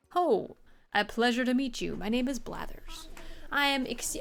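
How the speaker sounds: a light nerdy museum owl; a hint of a nerdy scholar. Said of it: "I don't wanna give him a nerd voice".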